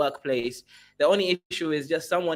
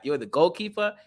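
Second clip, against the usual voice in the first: ordinary talk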